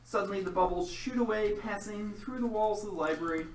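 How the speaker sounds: dramatic game master narration; story narration. A narrator's reading. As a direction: set the scene like a storyteller.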